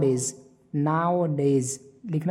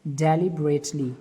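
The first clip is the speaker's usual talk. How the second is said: slow; much slower than usual. Shown as a demonstration. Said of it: "D E L I B E R A T L Y".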